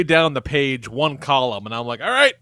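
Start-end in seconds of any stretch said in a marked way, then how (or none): 2.0-2.3 high, loud mock victory call; retold triumphant announcement. Groom tells fiancée his guest list is finished, mock triumphant. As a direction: call out a finished job, hammed-up.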